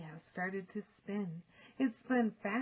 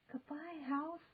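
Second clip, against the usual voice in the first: whispering; 7 semitones higher, 5 dB quieter than usual. A narrator's reading. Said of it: "whispered Annie".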